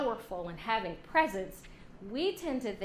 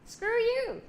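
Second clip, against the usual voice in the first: high mock brush-off; mock guy shrugging off a jab; dismissive retort; 11 semitones higher, 3 dB louder than usual. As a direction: toss it off carelessly. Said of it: "Mike is like".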